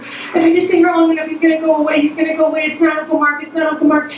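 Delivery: acting out a frightened kid reassuring herself; retold scared child. Child hiding in the car, mock-scared repeating. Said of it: "I can remember feeling so scared".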